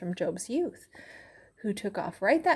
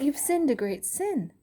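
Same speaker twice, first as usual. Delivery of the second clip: accusing friend; 5 semitones higher than usual. Acted. Eliphaz accuses Job.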